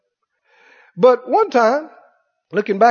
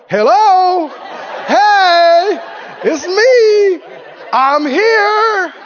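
higher, louder, laughing call of I'm here; God's playful reply; 8 semitones higher, 4 dB louder, much slower than usual. Retold or imitated. God answering the tarrying man, higher laughing call. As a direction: wave him down with a grin. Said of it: "He's going".

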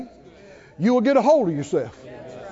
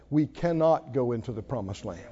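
whining spies; 5 semitones lower than usual. Retold or imitated. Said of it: "what did they say".

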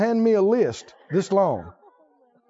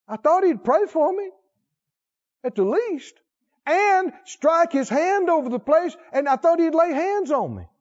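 offended Naaman; 9 semitones higher than usual. Acted. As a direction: whine like a proud commander slighted. Naaman's complaint continues.

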